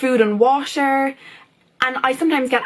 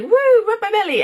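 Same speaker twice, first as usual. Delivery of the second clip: voicing the cat; 10 semitones higher, 3 dB louder than usual. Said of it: "she's like".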